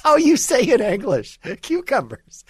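high mocking fake Spanish accent, repeated for laughs; hammed-up fake Spanish accent, pitched high. Repeating the celebrity's line to mock her fake Spanish accent. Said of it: "completely fake Spanish accent".

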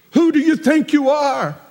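"Who do you think you are?" pitched high with Who stressed. Shown as a demonstration. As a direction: fire it up high in disbelief. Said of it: "We could have said it a different way".

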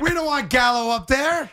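mild mock yell of a fan; re-enacted yelling at TV. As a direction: plead with the manager through the screen. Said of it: "I was yelling at the screen".

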